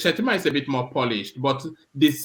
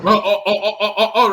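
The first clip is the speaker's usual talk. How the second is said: talking through real laughter, higher and louder; chuckling and slowing while restarting; laughing; 6 semitones higher, 4 dB louder, faster than usual. Real, not acted. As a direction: laugh it off while getting back to the point. Host laughing while resuming after clip.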